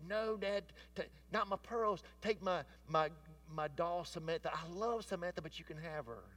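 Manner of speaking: put-on little girl pleading. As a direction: beg like a five-year-old clinging to her pearls. Child pleads in retold story.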